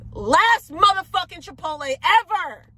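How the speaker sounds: real fury at the restaurant; furious outburst. Real, not acted. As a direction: shout it out in disgust. Furious rant at Chipotle.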